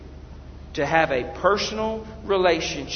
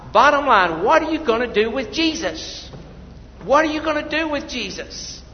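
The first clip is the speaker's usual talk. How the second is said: impassioned preaching. Real, not acted. Preacher asks what they will do with Jesus, impassioned preaching. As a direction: press the congregation with mounting force.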